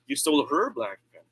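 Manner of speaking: emphatic "her"; stress on HER. Shown as a demonstration. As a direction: correct the owner by leaning on "her". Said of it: "I change the word stress".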